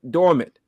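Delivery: Dormant said loud and alone; one-word loud emphasis; stress on dormant. Real, not acted. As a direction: punch the single word Dormant. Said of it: "This disease was dormant".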